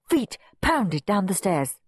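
ordinary delivery

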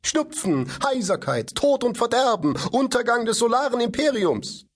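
high robot mimicry building to a dramatic pitch; boy parodying the robot's warnings, high and rising; mocking robot voice. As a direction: ham up the robot's doom warnings. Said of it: "ahmte dabei die Stimme des Roboters nach".

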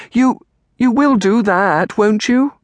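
put-on high, halting, drawn-out girlish voice; eager pleading. A narrator's reading. Girl wants aunt's promise to visit, eager. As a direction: press anxiously for a promise. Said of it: "Amelia said eagerly".

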